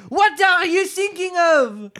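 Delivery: high squeaky stern mouse; a small mouse snapping at a daydreamer; severe mouse. Acted. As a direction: scold her like a prim little mouse.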